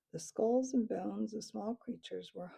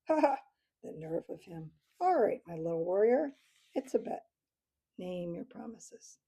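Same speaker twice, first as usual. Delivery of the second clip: amused laughing; 4 dB louder than usual. Acted. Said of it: "unbridled hilarity".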